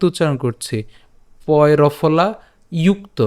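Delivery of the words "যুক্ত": যুক্ত begun with an "iu" glide; y-glide pronunciation. Shown as a demonstration. Teacher explains the letter to learners, যুক্ত said with a "yu" onset. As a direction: say যুক্ত as "yukto", opening on "iu". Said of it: "যুক্ত উচ্চারণ করলে ইউ".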